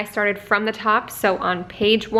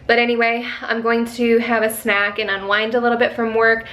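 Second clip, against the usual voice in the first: ordinary talk, nothing marked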